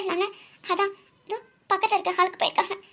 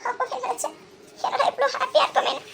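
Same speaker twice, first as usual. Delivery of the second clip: tearful, higher-pitched lament through sobs; crying; 3 semitones higher than usual. Acted. Young woman crying over her sister-in-law's accident. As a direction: weep while asking why this happens to us. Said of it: "அழாத சக்தி".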